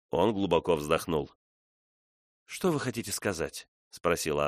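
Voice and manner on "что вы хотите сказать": tense, hushed question. A narrator's reading. Tense question after his sigh.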